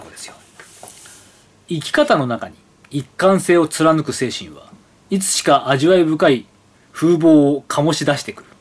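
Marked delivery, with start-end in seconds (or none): 1.7-8.5 slow, dramatic ad narration; solemn advertising voice; catalog ad read. Acted. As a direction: read it like a glossy brochure. Reads catalog copy aloud.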